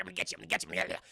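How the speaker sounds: gargled, gibbering monster chant; playful monster muttering; blob monster. Retold or imitated. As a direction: voice a creeping blob taunting its prey. Voices the blob creeping in.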